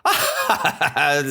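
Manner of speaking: acted string of ha-ha-ha; mocking laugh. Villagers hearing the boy's cries, mock laughter. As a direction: laugh it off as a joke. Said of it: "but they laughed".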